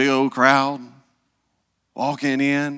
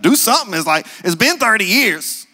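high-pitched pleading mama voice; mock mother begging, rising to a high plea; 11 semitones higher, 3 dB louder than usual. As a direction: nag him, then beg him, higher and higher.

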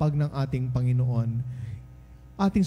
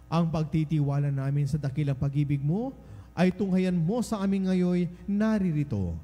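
measured liturgical prayer with lingering phrase endings; solemn prayer; 3 semitones higher than usual. Acted. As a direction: pray it formally on behalf of the congregation. Priest leads opening prayer.

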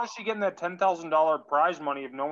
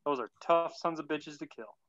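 put-on pathetic Southern accent. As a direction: read it in a weak Southern accent. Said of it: "a very pathetic Southern accent".

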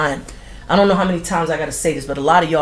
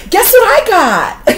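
much higher, louder and slow, gloating; mock show-off announcement; 13 semitones higher, 8 dB louder, slower than usual. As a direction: brag to the whole timeline. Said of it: "sharing all your good news".

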